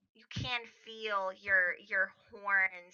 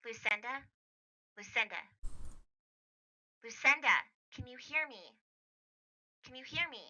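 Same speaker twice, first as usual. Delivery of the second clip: mysterious voice; 3 semitones higher, 4 dB quieter, much faster than usual. Acted. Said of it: "you hear this voice say".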